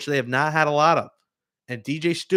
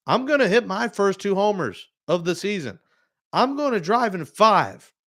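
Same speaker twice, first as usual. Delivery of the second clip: imitating a player's confident declaration, higher pitched; swaggering mock prediction, pitched up; bold vow; 5 semitones higher than usual. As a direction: call your shot like a pumped-up ballplayer.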